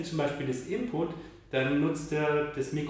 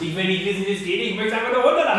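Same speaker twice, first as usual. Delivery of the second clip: loud, fast, laughing gamer whine; impatient gamer voice; 6 semitones higher, 10 dB louder, faster than usual. Pretend. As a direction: rattle it off like a pushy gamer. Spielt genervten Gamer nach. (genervter Gamer, lachend und schnell)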